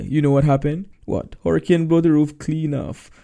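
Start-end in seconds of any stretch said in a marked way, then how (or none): 1.4-3.1 louder, higher put-on voice of Moses bragging; Moses tall tale. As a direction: ham up the hurricane boast, louder. Moses spins tall tale to reporter.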